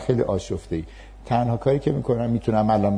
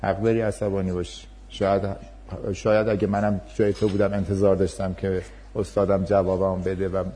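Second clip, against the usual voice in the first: calm reassuring teacher; 3 semitones lower, 5 dB quieter than usual. Shown as a demonstration. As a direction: talk him down gently, acknowledge his anger. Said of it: "من میام پهلوی اون".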